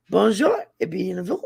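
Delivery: Cajun French greeting. Shown as a demonstration. Demonstrating a channel welcome for viewers, Cajun French accent. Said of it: "It's the Cajun version".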